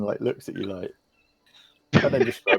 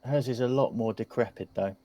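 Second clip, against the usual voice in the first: put-on inquisitive kid; 2 semitones higher than usual. Kid tells strangers about the big house, lightly voiced child. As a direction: lightly play a gossipy youngster.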